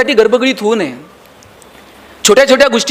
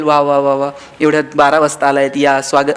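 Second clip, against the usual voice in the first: sarcastic welcome; 8 semitones lower than usual. Retold or imitated. Wife's mock welcome at midnight.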